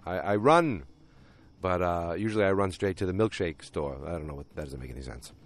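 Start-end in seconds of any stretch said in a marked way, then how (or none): 4.1-5.3 lower, softer real deep voice; husky after-concert low voice. Real, not acted. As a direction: let the voice sit low and soft. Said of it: "I just love having this deep voice".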